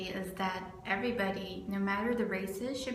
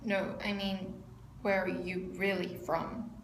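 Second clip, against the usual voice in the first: put-on Spanish accent; slower than usual. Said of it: "in this really thick Spanish accent".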